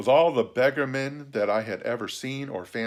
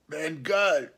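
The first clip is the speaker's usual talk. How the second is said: higher, rusty-lock croak; hoarse, awkward castaway; 6 semitones higher than usual. A narrator's reading. Castaway giving his name to a stranger, hoarse and awkward. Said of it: "his voice sounded hoarse and awkward".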